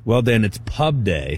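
hushed, dramatic golf broadcast voice; like calling a putt at the Masters; golf announcer voice. Pretend. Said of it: "is that your golf voice?".

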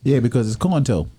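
Coneta said as "corn toe", just the way it is spelled; spelling pronunciation. Shown as a demonstration. Teasing friend says the town the way the sign reads. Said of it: "read the sign".

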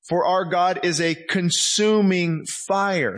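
slow emphatic repeat; repeated slowly. Shown as a demonstration. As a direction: lean on consuming, slow. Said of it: "Hebrews twelve".

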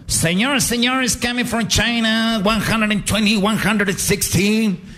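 high, stretched-out fight introduction; ring announcer. Acted. Host presenting the contestant from China, slow ring-announcer call. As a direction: announce the fighter, drawing out the words.

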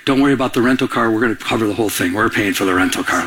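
fast, low, offhand reassurance; quick reassurance. Retold or imitated. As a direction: rattle off the good news quickly. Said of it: "He goes".

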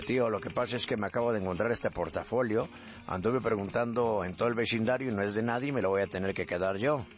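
lightly voiced low Galician; gallego preocupado. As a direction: play a hint of a troubled Galician, low. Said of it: "un gallego que se encuentra con otro". (gallego preocupado, voz algo grave)

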